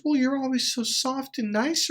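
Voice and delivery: high, whiny girlfriend impression. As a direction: mimic her, high and complaining. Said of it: "she goes".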